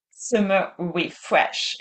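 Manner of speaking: playful English pronunciation of the event name; accent anglais sur Summer Refresh. Shown as a demonstration. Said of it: "je me prends un accent anglais".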